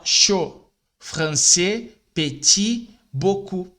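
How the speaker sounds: chaud as sho, français as fransé, petit as peti, beaucoup as boku; final letters left unspoken; silent final consonants. Shown as a demonstration. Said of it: "Com a letra D no final". (consoantes finais mudas)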